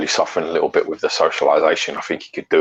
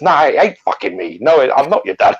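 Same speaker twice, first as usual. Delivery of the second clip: mock angry; 8 semitones higher, 4 dB louder than usual. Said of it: "Fucking calm down".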